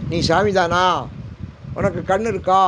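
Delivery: imitating a man shouting in the temple; retold shout. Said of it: "அப்படின்னு கத்துறாரு". (கோயிலில் கத்தும் மனிதரைப் போல உரத்த குரல்)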